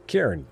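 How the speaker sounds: Cairn as one low syllable after spelling it; pronunciation demo. Shown as a demonstration. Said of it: "C A I R N".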